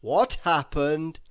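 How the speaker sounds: anxious. Acted. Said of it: "he asked anxiously".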